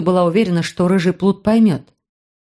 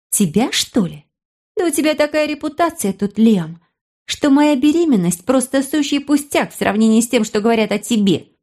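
put-on higher, scornful girl's voice; mock her brother, pitched high; girl arguing; 5 semitones higher than usual.

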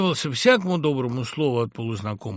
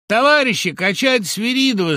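much higher, louder rallying cry; shouting to the crowd; 11 semitones higher, 9 dB louder than usual. A narrator's reading. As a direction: call the whole crowd to toss him. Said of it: "закричал очкарик".

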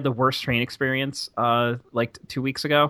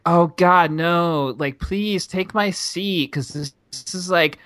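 mocking gushy stranger; 4 semitones higher than usual. Woman on train offers her seat, lightly mocked as gushy. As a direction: lightly imitate a gushing passenger giving up her seat. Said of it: "says in a very this voice".

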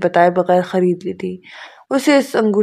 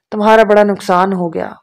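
ordinary delivery, nothing marked

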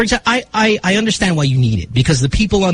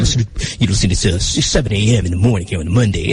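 lower-pitched on-air announcer voice; radio DJ twang; 7 semitones lower than usual. Retold or imitated. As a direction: put on a broadcaster's deep DJ delivery. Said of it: "There are some D Js that do it".

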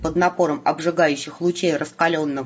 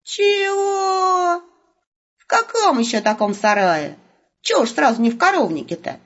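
a shouted, much higher "Чего?" then quick outraged questions; indignant outcry; 9 semitones higher than usual. A narrator's reading. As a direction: bristle at the idea of a barn. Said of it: "возмутился Волк".

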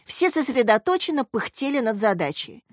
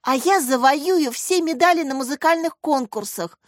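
higher, bright-spirited smiling boast; 6 semitones higher than usual. A narrator's reading. Girl sharing her music dream with classmates, smiling. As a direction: say it through a happy smile. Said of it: "улыбнулась Таня".

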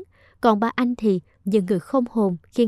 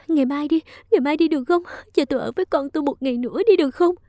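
higher, hurried plea; pleading; 5 semitones higher, faster than usual. Acted. Minh clings to Long's leg begging for one more day, higher. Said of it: "van xin".

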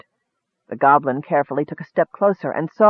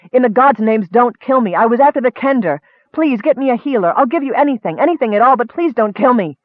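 high, loud frantic begging; desperate pleading; 6 semitones higher, 3 dB louder than usual. A narrator's reading. Wounded hunter begging the goblin for a healer, high panicked pleading. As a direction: plead for your life, voice up high. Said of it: "the man screamed".

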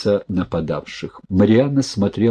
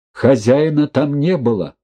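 ordinary delivery, nothing marked

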